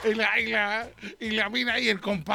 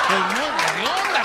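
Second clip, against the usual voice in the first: slow and louder, laughing through "hedionda"; louder laughing repeat; 4 dB louder, slower than usual. Acted. Repeating the insult to her friend, louder with a laugh. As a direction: lean on "hedionda" and giggle. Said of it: "por le digo".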